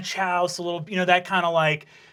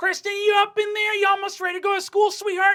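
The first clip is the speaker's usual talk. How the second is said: very high-pitched motherly calling voice. Narrating a scene, the speaker voices the listener's mom calling through the door: mom's voice. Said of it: "you hear the voice of your mom say".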